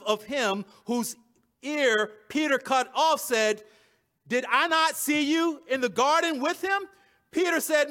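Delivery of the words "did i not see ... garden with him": raised pitch, pointed challenge; accusing question. Acted. High priest's relative confronting Peter in the garden story, accusing. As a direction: challenge him as a witness would.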